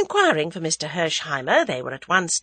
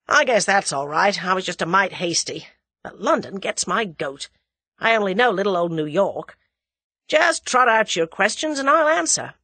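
Hersheimer, mollified American; 2 semitones higher, 4 dB louder than usual. Acted.

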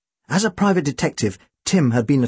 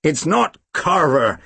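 growled; slower than usual. Acted. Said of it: "the American growled".

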